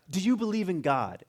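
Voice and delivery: lightly acted BBC interviewer; interviewer's question. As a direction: put the question pointedly as an interviewer. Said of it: "and they're like".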